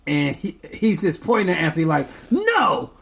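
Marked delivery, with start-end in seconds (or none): 2.3-2.9 1 mimicking baby. Baby voiced refusing.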